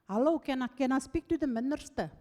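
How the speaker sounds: lightly imitated Afrikaans caller; Afrikaans accent. Caller asks the assistant for the minister, Afrikaans accent. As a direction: put on a hint of a heavy Afrikaans accent. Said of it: "heavy Afrikaans accent".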